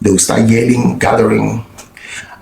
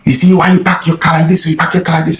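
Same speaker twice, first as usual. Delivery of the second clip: higher, mock accusing voice; mimicking the angry man; 5 semitones higher than usual. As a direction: imitate a pushy stranger accusing him. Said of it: "he walked towards me and said".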